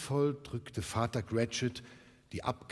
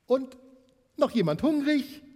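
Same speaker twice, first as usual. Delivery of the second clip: high, loud cheerful offer of seconds; bright mother; 8 dB louder than usual. Acted. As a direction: call out to the table, high and loud. Mother offers more food.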